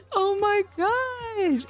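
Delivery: very high, drawn-out disbelief; aghast exclamation. Real, not acted. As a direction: stretch it out high in dismay. Aghast at uncle's flirting in game.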